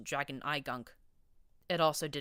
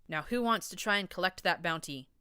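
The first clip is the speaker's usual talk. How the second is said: yelling; 2 semitones higher, 4 dB louder than usual. Acted. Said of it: "I yelled up at them".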